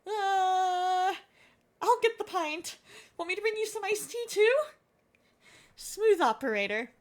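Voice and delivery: lightly voiced playful husband and wife; acted couple banter. Player voicing a couple teasing each other, playful. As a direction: read the lovers' teasing lines in character.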